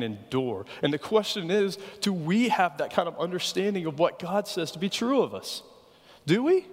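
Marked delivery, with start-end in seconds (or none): 6.3-6.7 sharp challenge. Real, not acted. Pointed challenge to congregation.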